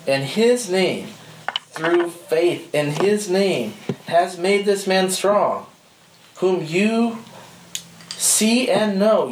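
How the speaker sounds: slow, emphatic scripture reading leaning on "name"; stress on name. Shown as a demonstration. Preacher reading Acts to the group, stressing name. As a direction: dwell on "His name" each time. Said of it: "Notice how he's saying the name".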